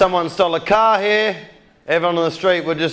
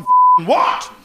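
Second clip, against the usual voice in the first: high, mock-outraged exclamation; shocked disbelief; 12 semitones higher, 4 dB louder than usual. Retelling reaction to the word, high hammed-up disbelief. Retold shocked reply to a slur.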